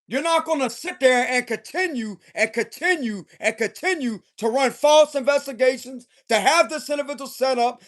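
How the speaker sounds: irritated telling-off with punched key words. Acted. Tarot reader voicing the King of Swords' warning, irritated. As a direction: lay down the law, fed up. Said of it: "but he's irritated".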